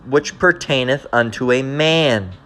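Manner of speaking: very slow, deliberate verse reading; scripture reading. Real, not acted. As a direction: read out the law word by word, weightily. Reads scripture aloud.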